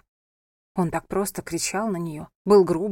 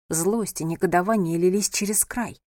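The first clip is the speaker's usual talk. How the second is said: ordinary talk, nothing marked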